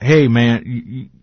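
put-on Boomhauer-like Texas accent; Texan man's voice. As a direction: imitate a Texan buddy stumbling over words. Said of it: "like, his voice was".

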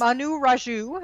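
"Manu" said ma-NOO before "Raju"; wrong-syllable stress. Real, not acted. Host unsure of a CNN reporter's name, misstressing "Manu". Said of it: "accent on the wrong syllable".

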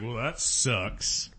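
bored deadpan reply. Retold or imitated. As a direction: shrug it off slowly. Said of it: "he's just like".

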